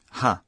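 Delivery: "ha" sounded as written, h and open a; old pronunciation. Shown as a demonstration. Narrator showing how the topic marker was once pronounced, old pronunciation. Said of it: "era pronunciado assim".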